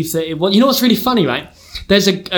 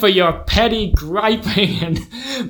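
put-on American accent; 2 semitones higher than usual. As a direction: berate him in an American accent. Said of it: "gonna have to do an accent".

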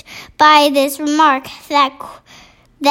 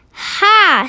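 giant's mock shout; 6 semitones higher than usual. A narrator's reading. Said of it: "shouted the giant".

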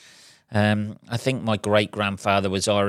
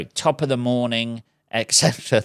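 Irish accent attempt. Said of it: "there's my attempt at an Irish accent".

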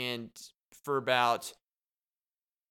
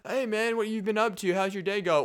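friendly greeting; 7 semitones higher, 5 dB louder than usual. Retold or imitated. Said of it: "it goes a little like".

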